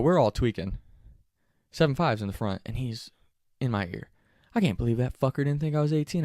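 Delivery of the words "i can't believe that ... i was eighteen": indignant, higher-pitched griping; upset. Retold or imitated. Friend grumbles in the driver's ear about looking eighteen, upset. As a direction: gripe as if genuinely offended. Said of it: "he is genuinely upset".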